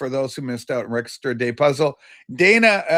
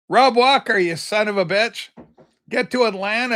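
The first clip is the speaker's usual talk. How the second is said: louder, higher mock cuss; mock outburst; 5 semitones higher, 3 dB louder than usual. To viewer Rob, a playful louder mock insult. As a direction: playfully bark it at a friend.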